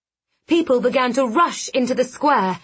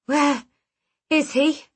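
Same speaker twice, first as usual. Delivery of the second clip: a weak croaked question; 4 semitones higher than usual. A narrator's reading. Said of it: "I croaked".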